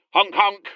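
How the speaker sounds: honking like a goose; mock clown honk honk; silly clown honk. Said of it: "Why do you keep honking?".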